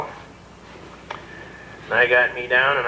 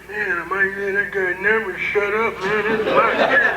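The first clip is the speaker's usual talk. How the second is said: higher, amused cop voice; 6 semitones higher than usual. Retold or imitated. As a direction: play the cop, tickled pink. Cop's quote in story.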